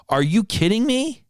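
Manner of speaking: high, outraged disbelief. Retold or imitated. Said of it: "that's what I was screaming in my head".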